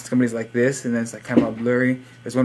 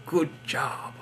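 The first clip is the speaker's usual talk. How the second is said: mock British accent; 4 semitones higher, 6 dB quieter than usual. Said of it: "Why am I speaking in crazy accents?".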